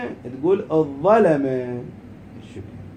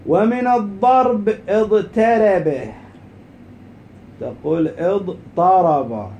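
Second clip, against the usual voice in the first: slow, raised teaching voice; lesson dictation; 4 semitones higher, 6 dB louder, much slower than usual. Shown as a demonstration. Teacher dictating a grammar rule to students, slow dictation. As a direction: sound out each word slowly and higher.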